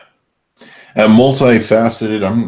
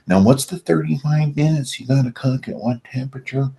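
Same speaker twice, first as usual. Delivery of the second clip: exasperated; 7 semitones higher, 4 dB quieter than usual. Retold or imitated. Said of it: "you don't have to sit there and go".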